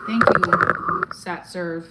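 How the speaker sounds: shouted thank you; belted thanks to the viewer; loud thanks. Real, not acted. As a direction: yell it out to the donor.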